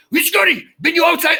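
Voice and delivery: mock alarmed hotel caller shouting; hotel staff on the phone. Japanese hotel staff calling the guest, alarmed and shouting. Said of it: "And they go like".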